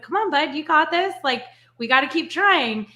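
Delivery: lightly voiced encouragement to a three-year-old; encouraging coach. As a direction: cheer a scared toddler on. Coaching toddler godson.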